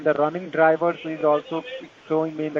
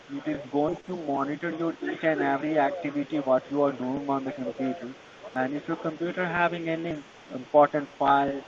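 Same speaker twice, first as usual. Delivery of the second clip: Indian call center. Real, not acted. Tech support scam call agent.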